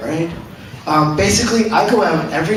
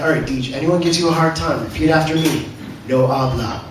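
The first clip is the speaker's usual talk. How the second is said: low, hushed coaching voice; low-pitched voice of a workmate giving advice; coaching crewmate; 4 semitones lower, 3 dB quieter than usual. Acted. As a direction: instruct it low, like a confiding crewmate. Quoting crew coaching him, low voice.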